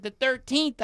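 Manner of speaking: loud, high frantic correction; freaking out. Retold or imitated. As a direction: imitate a panicked caller insisting. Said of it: "This lady is freaking out".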